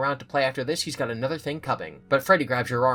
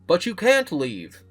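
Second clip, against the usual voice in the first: creepy robot voice; 6 semitones higher, 6 dB louder, slower than usual. A narrator's reading. Animatronic blocks her exit.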